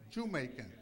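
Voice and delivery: "Jamaican" said as "JEW-maican"; punning pronunciation. Shown as a demonstration. Preacher explaining his nickname, "Jamaican" punned as JEW-maican. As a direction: turn the start of "Jamaican" into a clear "Jew". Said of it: "and I'm a Jew".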